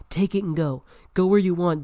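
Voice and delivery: mildly frantic, urging him away; crying out. Acted. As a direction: give in with an exasperated cry. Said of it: "he cried".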